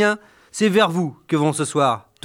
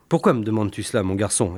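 softly, lower, a consoling father; gentle father; 6 semitones lower, 3 dB quieter than usual. Acted. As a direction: soothe a little boy gently. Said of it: "ai-je demandé en le prenant sur mes genoux".

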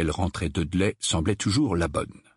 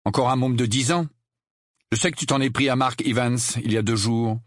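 raised-pitch reproachful needling; accusing Harry; 4 semitones higher than usual. Acted. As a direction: confront your bullying cousin, smile gone. Harry accusing, smile gone. (reproche mordant, voix un peu haute)

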